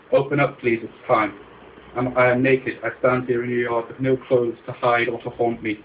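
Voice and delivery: pleading loudly. Acted. Begging at door.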